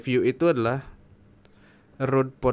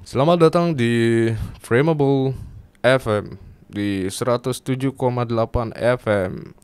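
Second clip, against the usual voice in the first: louder, announcer-style radio welcome; 5 dB louder than usual. Pretend. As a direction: greet listeners like a radio DJ. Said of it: "suaraku udah kayak penyiar radio nih".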